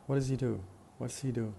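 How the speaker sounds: "what does he do" squeezed to "what's he do"; reduced question. Shown as a demonstration. Teacher modelling the reduced native form. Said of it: "tend to pronounce ... in three syllables".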